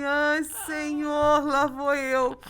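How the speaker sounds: high, loud, slow drawn-out dread; dramatic resignation. Retold or imitated. Cast for Mamma Mia, she groans a slow, loud, high mock dread. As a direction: stretch it out like bracing for a storm.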